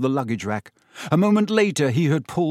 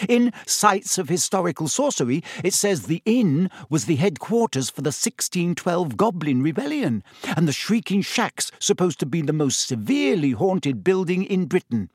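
a touch higher, mildly eager; 5 semitones higher than usual. Acted. Hermione lectures her friends on history, mildly eager. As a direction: press on with bookish enthusiasm. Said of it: "Hermione pressed on eagerly".

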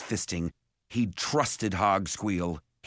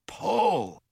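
higher, sharp call; commanding signal; 10 semitones higher than usual. A narrator's reading. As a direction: call the cue to heave. Simon gives the signal to heave.

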